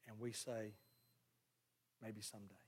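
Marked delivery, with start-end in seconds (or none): 2.0-2.5 low, very soft, evasive reply; hushed, reluctant stalling; noncommittal putting-off. Acted. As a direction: put it off quietly, half under your breath. People putting off God's prompting.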